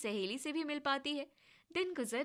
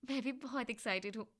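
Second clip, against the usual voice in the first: quieter, gentle "भी बहुत excited"; soft, content reply; softly happy; 4 dB quieter than usual. Acted. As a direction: answer warmly and calmly. Payal replies more softly.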